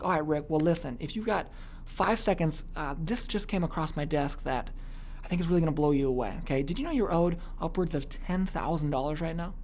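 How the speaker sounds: soft, slowed confiding sales tone. Shown as a demonstration. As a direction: drop the level to draw the listener in. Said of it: "I'm kind of lowering my voice level".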